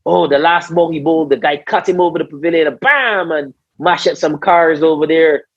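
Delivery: lively mock replay with a high-pitched bam; mocking mimicry. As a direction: imitate teammates replaying a bad ball. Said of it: "and they're mimicking".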